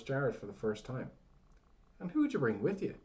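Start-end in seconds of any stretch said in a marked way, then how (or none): 2.0-2.9 put-on loud, high old man's bark. A narrator's reading. Old man barking at the stranger Jared, loud. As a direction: bark the question out. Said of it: "the old man barked out".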